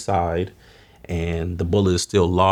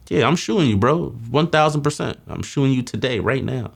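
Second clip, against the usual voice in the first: threatening shout; 7 semitones higher than usual. Retold or imitated. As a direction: bark the threat right at him. Threatening the man in the street.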